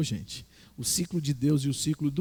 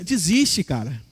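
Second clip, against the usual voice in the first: mock devil taunting, pitched higher; tempter from afar; 6 semitones higher than usual. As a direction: call out the temptation from a distance. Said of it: "o outro fala de longe assim".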